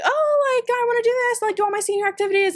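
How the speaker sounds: very high, put-on quote of inner doubt; wavering reluctance. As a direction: pitch it way up, then ease down. Voices own past wavering thought.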